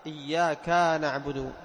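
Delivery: slow, إياك stretched to iyyaka-a with an added alif; إياك with a drawn added alif; extra alif. Shown as a demonstration. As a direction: lengthen the end of إياك wrongly. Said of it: "أضاف ألفًا".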